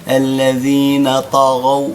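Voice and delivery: الذين طغوا with heavy emphatic ط and غ, slow; tajwid recitation. Shown as a demonstration. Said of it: "والغين كلها مفخمة". (ترتيل بطاء مفخمة)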